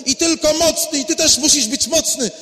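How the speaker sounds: loud, proud lecturing from the pulpit; smug preaching. Acted. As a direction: preach down at them, full of yourself. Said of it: "a Piotr by stał i mówił".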